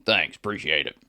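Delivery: gruff, deadpan grump imitation; sarcastically "jovial" grouch voice; mock jovial. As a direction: imitate a grump giving grudging thanks. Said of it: "in his jovial way".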